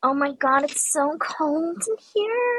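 high-pitched drawn-out shout; dramatic wail. Real, not acted. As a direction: overdramatic cry about freezing, very high. Dramatic complaint about the cold.

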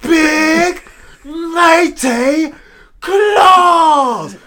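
very high cartoon bellow, word by word; SpongeBob meme quote. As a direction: scream each word like an outraged cartoon character. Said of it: "quote so many damn SpongeBob memes".

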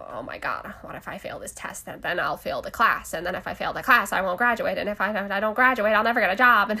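put-on old-time radio announcer voice; dramatic vintage radio delivery; 1940s radio voice. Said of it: "nineteen forties radio voice".

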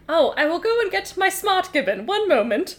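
a dim monkey eager to oblige; put-on silly Aussie Gibbon; idiot Gibbon. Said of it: "as an idiot Gibbon".

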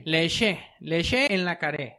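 slow, hammed-up French accent on "Leche en la caré"; mock French accent. Joking to his co-host, slow mock French accent. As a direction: play a fake Frenchman, slowly. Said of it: "¿sabes cómo se dice en francés".

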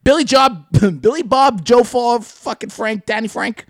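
loud, high hillbilly bark, hammed up; redneck Klansman. Klan leader yells at members, a hammed-up high hillbilly bark. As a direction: shout down the pizza idea like a dim Klan boss. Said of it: "pretending you were Danny Frank Bob Jim".

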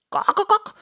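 high clucks, then a hesitant excuse; flustered rooster. Acted. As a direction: grope for a reason in a loud rooster voice.

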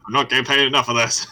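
high, loud put-on nasal whine; hammed-up nasal complaining voice; mock nasal voice. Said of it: "You have to do it exactly like me".

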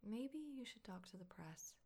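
slow breathy whisper in bed. Acted. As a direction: hush it slowly, close to his ear. In bed, close intimate talk.

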